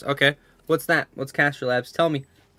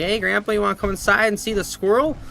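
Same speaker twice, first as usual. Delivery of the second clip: innocent invitation; 7 semitones higher, 3 dB louder than usual. Retold or imitated. Acting out his innocent invitation.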